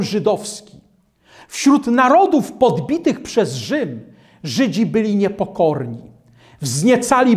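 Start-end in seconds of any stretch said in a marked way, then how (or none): none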